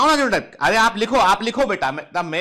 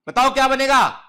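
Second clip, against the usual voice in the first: urging question; 6 semitones higher, 5 dB louder than usual. Real, not acted. Teacher pressing students for answer.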